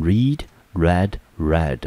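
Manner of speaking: read, read, read, each said like red with a short vowel. Shown as a demonstration. Teacher drilling the past tense read to students, said like red. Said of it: "要念成read".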